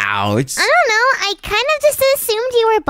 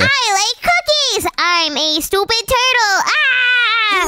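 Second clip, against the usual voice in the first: slow, dopey mock impersonation; mocking turtle voice; slower than usual. The speaker making fun of Wudo, mocking turtle voice. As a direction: make fun of your friend with a drawn-out silly voice. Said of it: "Stop making fun of me".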